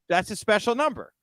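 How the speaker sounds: put-on botched Italian accent; hammy, half-baked Italian accent. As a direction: try an Italian accent and butcher it. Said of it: "trying to do an Italian accent".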